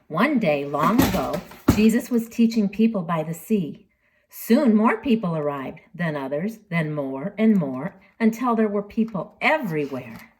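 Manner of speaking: lively storybook read-aloud; children's story narration. Acted. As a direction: tell it like a bedtime Bible story for kids. Reads Bible story to children.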